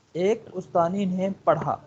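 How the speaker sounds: slow, spaced ایک استانی نے پڑھا for the student; slow repeat. Shown as a demonstration. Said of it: "اب دیکھیں".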